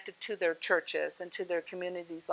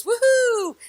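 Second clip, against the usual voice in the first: excited whoop; 8 dB louder than usual. Acted. New baby cell celebrates.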